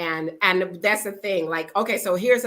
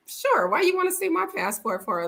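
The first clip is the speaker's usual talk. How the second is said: retold sassy reply; 9 semitones higher than usual. Retold reply to nosy lady.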